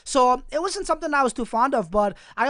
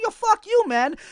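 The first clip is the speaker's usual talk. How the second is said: mock angry retort; 11 semitones higher, slower than usual. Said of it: "I didn't tell him like that".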